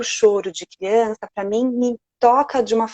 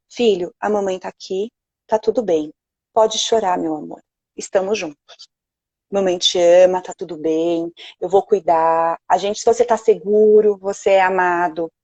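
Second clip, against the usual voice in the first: put-on soothing mother to baby; 2 semitones lower than usual. Shown as a demonstration. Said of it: "mother soothing crying baby demo".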